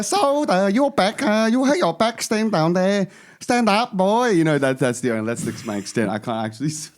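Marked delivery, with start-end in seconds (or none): 0.0-4.3 put-on high-pitched caricature Asian accent. Parent fussing over a hurt back, mock Asian accent. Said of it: "He has one Asian accent".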